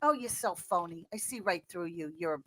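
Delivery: a smug voice that looks down on them; low mock sneer. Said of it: "they're all, you know".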